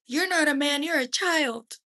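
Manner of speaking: high, sharp scornful insult; contemptuous mother. A narrator's reading. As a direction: spit the insult at him.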